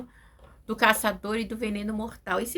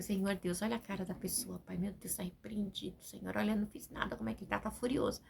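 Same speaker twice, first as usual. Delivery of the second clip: much softer, a murmured plea to God; silent prayer in the mind; 2 semitones lower, 9 dB quieter than usual. Retold or imitated. Preacher voicing a hushed inner prayer to God. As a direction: pray under your breath, barely audible. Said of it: "ora na mente".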